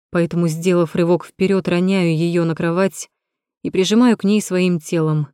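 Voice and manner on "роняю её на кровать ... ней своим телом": plain reading voice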